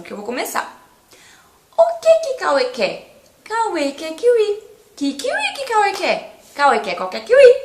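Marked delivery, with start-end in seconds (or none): 1.8-7.5 tongue twister demo. Shown as a demonstration. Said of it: "Eu vou falar o trava-língua".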